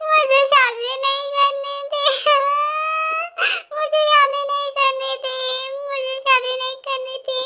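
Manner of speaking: hammed-up sing-song crying lament; mock wailing. Bride wailing to the family about her marriage, hammed-up crying. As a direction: wail it out like a sulking bride. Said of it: "तुम ऐसे चिल्ला के रो क्यों रही हो".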